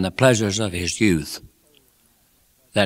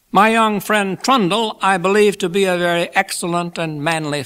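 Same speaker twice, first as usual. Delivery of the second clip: high, raised speechmaking voice; genial Pickwick, praising; 8 semitones higher, 4 dB louder than usual. A narrator's reading. Pickwick praises newlyweds to the guests, high genial oratory. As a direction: orate your praise, settling toward the close.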